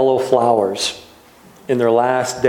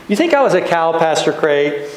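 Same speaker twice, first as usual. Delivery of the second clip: higher-pitched toddler imitation; Ben, little child's voice; 5 semitones higher than usual. Toddler in the pastor's arms asking him, little voice. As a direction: ask it like a little kid. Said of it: "he'll say in that little voice".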